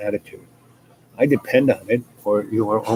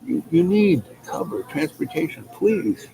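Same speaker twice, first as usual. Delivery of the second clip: crow voice; 6 semitones higher than usual. Acted. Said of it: "what the crow said?".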